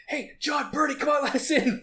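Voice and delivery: high, shouted plea to be let in; mock pleading shout. Friend retelling the film, shouting high at the pub door. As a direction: call out, begging to get in.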